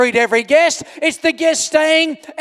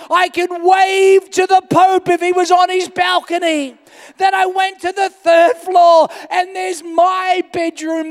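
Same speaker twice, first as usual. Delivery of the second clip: higher, rising excitement, room after room; excited; 4 semitones higher than usual. Retold or imitated. Pastor listing the suite's rooms to the church, amazed. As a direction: reel off each room in amazement. Marvelling at the three-floor suite.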